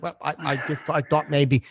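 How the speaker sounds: hesitant, stumbling retold plea; imitated stammering. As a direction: lightly mimic a halting stammer. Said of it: "That stammering jazz don't work with me".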